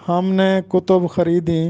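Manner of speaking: کتب said kutub, both letters with pesh; kutub pronunciation. Shown as a demonstration. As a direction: read کتب as ku-tub. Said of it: "تلفظ ہوگا کتب". (کتب: کاف اور تے پر پیش)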